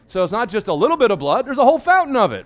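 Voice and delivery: rising preacher's exclamation. Acted. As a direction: build it up to the fountain.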